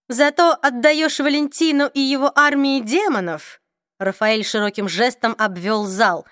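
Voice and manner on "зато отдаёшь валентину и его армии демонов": cold vampire voice. Acted. Raphael accuses Luke.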